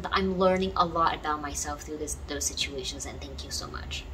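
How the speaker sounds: soft, thankful talk to the universe, partly whispered; grateful and gentle. Shown as a demonstration. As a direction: thank the universe like a dear friend, softly. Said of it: "Talk to the universe like a friend".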